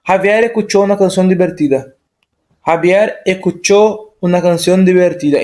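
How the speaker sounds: escuchó said as ecuchó inside the sentence; Spanish sentence with escuchó as ecuchó; dropped S. Shown as a demonstration. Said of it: "E não Javier escuchó".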